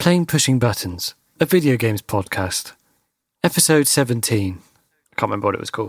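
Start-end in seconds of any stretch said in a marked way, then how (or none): 0.0-4.6 smart-speaker voice-assistant announcement voice. After asking Alexa to play the podcast, answering as Alexa: Alexa impression. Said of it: "That's a good impression".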